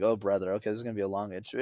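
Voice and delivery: a fast, quiet, resigned aside under the breath; mock weary guest, rushing through it; weary groan. Guest grumbling to himself about a dull host, quiet and fast. Guest dreading a boring interview.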